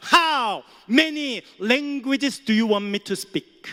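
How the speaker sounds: proud, slow, emphatic English retort; boastful booming question; loud retort. Retold or imitated. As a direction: spell it out loudly to the cashier. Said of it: "큰 소리로 말하니까".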